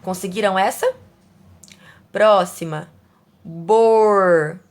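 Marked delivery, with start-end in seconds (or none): 3.4-4.6 "Borbulha" loud and slow, in syllables; reading aloud loudly. Shown as a demonstration. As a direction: stretch out bor, bu, lha loudly. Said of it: "essas palavras em voz alta". ("Borbulha" em voz alta, sílaba por sílaba)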